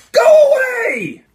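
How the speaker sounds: huge drawn-out high scream; top-of-lungs yell. Retold or imitated. Bored prankster in a restroom stall, yelling at the top of lungs. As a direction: bellow it as loud as you can, stretched out. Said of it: "At the top of my lungs, I just yell".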